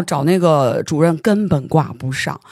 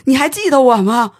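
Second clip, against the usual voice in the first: fake politeness; 7 semitones higher, 5 dB louder than usual. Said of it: "我就跟他假客气".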